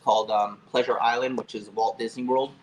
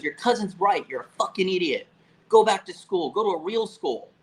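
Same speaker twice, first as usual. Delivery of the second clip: higher-pitched exasperated telling-off; emphatic mock reprimand; retold scolding; 5 semitones higher than usual. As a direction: imitate a teacher fed up with a wasted student. Retelling teacher scolding him.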